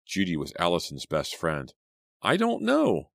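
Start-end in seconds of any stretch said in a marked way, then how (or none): 2.2-3.1 high trembling reply. A narrator's reading. Teacher answers the kids in a high trembling voice. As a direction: let the voice shake with fear. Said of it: "replied in a trembling voice".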